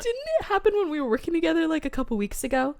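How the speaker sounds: put-on British accent. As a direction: slip into a playful British lilt. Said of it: "Did we do a British accent?".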